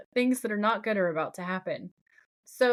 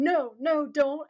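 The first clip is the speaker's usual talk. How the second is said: higher-pitched, mildly acted plea; retold pleading, raised pitch; mock pleading; 5 semitones higher, slower than usual. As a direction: lightly imitate someone begging a captor. Voicing Sam's pleading, retold.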